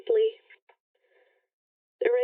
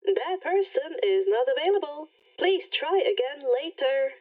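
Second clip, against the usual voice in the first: automated message. Acted. Rainbow rejects again.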